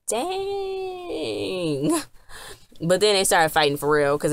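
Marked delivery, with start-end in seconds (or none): 0.1-2.0 high, cracking shout of shock. Real, not acted. Watching the fight on TV, a stunned high shout.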